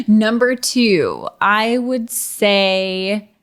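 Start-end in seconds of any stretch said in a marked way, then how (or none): 0.1-1.3 slow, drawn-out announcer call. Shown as a demonstration. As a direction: announce it grandly. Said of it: "can you say number two for the people".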